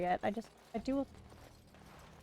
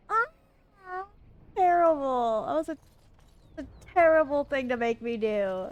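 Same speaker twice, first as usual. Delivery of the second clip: distraught. Real, not acted. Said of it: "Emotionally distraught, chat".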